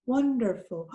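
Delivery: wonderful blended quickly; said fast. Shown as a demonstration. Teacher blending chunks for the class, quick. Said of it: "let's kind of say it fast".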